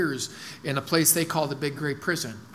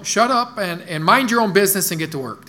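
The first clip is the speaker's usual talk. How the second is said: louder, higher imitated command; Brad Tybert's blunt order; 3 semitones higher, 5 dB louder than usual. Pastor quoting coworker's paraphrase of a verse, blunt command. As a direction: lay down the law, mimicking a coworker. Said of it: "That's how he said it".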